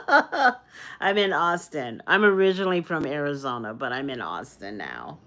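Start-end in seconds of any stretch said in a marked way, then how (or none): 0.0-2.0 laughing at herself while telling her city to the live chat. Real, not acted. Giggly repeat. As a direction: repeat it through a slow laugh, louder.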